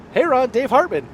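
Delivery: retold hearty greeting; acted friendly greeting. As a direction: replay an upbeat hello to a new acquaintance. Re-enacts his friendly introduction to Ron.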